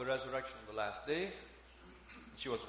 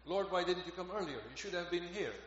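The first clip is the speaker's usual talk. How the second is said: higher-pitched mild reproach; hint of critique; 5 semitones higher than usual. Martha questioning Jesus after her brother's death, mildly reproachful. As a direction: gently take Him to task. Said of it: "a hint of critique".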